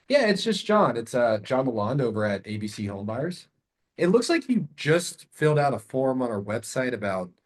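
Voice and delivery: easy, friendly and questioning; curious tone. Shown as a demonstration. Caller John asking seller about web form, curious. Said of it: "Notice I'm using a curious tonality".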